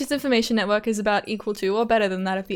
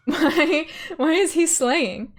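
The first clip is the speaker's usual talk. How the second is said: mock fangirl gushing; 4 semitones higher, slower than usual. Gushing over a character sprite.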